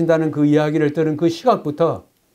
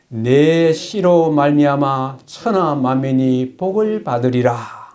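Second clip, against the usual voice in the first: scripture reading; slower than usual. Acted. Reading Genesis verse.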